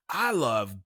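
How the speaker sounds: dad bursting into the bedroom, yelling with glee; yelled. Retold or imitated. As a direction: drag it out like a gleeful shout. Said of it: "and yells".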